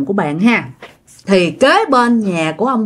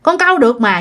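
high, quick mock protest; retold protest; 9 semitones higher, faster than usual. Accused nephew answers aunt back about the fish, protesting. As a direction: imitate a nephew insisting he is innocent. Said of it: "chứ ảnh đâu có ăn cắp đâu. Thì ảnh cũng có nói lại".

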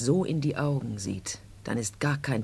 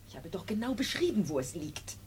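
hastiges Flüstern; nervös geflüstert, kaum Stimme; whisper; 9 semitones higher, 5 dB quieter than usual. Acted. (leise und unruhig geflüstert)

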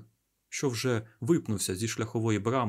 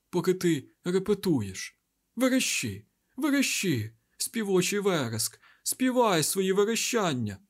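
much higher, louder, eerie shrieking chorus; mad voices; 9 semitones higher, 3 dB louder than usual. A narrator's reading. The black wind's mad voices taunting Rand with bloodlust. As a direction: chant it like a thousand crazed voices gloating. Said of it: "волання тисяч божевільних голосів".

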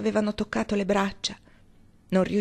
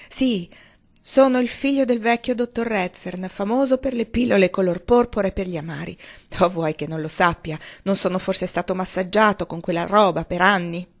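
bitter; 4 dB louder than usual. Acted. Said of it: "Barney rise amaramente".

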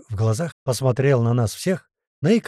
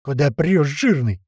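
shouting; 3 dB louder, slower than usual. Acted. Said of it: "наехал на Няму Леший".

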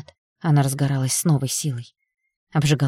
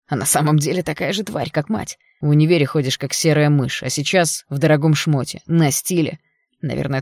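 contemptuous. Acted. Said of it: "презрительно изогнулись".

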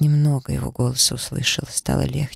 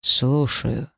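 stern voice. A narrator's reading. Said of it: "прогремел грозный голос".

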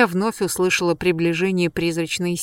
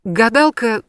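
halting, louder, breaking the words apart; stammering shock; 4 semitones higher, 6 dB louder, slower than usual. A narrator's reading. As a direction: stumble out the first words in shock. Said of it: "запинаясь".

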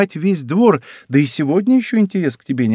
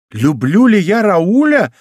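slow, louder exclamation; exclaiming; 5 semitones higher, 5 dB louder, slower than usual. A narrator's reading. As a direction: cry it out in disbelief. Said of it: "воскликнула она". (медленно и громче, с восклицанием)

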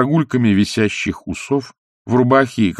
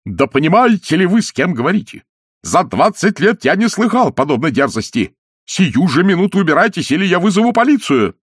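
outraged shout, higher and louder; roaring; 10 semitones higher, 4 dB louder than usual. A narrator's reading. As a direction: bellow as if back in England. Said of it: "заорал так". (разъярённый крик)

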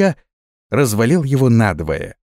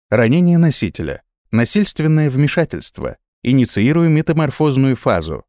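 cheerful synthetic AI announcement; a bright neural net speaking; chipper text to speech voice; 4 semitones higher than usual. Acted. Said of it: "услышал голос нейросети".

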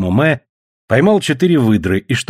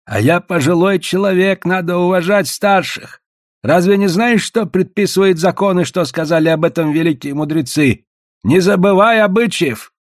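high-pitched indignant lecture; exclaiming; 6 semitones higher than usual. A narrator's reading. Elder demanding respect for his age, exclaiming. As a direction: insist on respect in a raised voice. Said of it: "восклицал Гао".

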